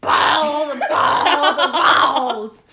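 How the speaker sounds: cracking up mid-word; laughing. Real, not acted. Giggling fit over a funny word.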